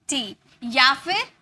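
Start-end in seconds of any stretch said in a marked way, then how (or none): 0.1-0.3 टी with a drawn-out ee; pronunciation model. Shown as a demonstration. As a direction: model टी for learners, holding the ee. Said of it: "इसकी pronunciation की जाएगी". (टी में लंबी ई का उच्चारण)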